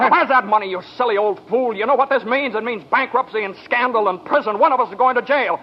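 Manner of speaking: rising fury at his bumbling uncle; angry outburst. Acted. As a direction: lash out at him in panic and rage. George blows up at Uncle Billy.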